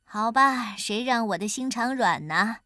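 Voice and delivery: mock-grudging consent; feigned reluctance. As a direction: sigh it out as if parting with a treasure. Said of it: "假装不舍地说".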